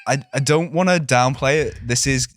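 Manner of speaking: mock-formal debt collector on the phone; stern tax officer. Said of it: "Start sending him fake letters".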